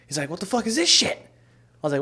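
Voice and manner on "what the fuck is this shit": high-pitched mock indignation; retold outrage. Brother complains about his notebooks, retold outrage. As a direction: squeal it in disbelief, imitating an angry brother.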